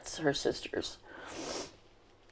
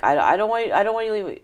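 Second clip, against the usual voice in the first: put-on child's plea; 9 semitones higher, much faster than usual. Child pleading with parent, retold.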